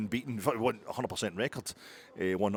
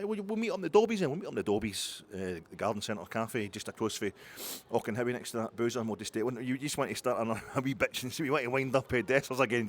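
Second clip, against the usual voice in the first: put-on Belgian accent. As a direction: sing it out like a stereotyped Belgian. Philippe voice continues.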